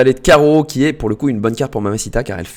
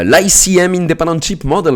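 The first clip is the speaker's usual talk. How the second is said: mock English accent; 4 semitones higher, 3 dB louder than usual. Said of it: "mon accent anglais".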